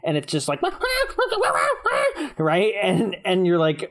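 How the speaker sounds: ordinary talk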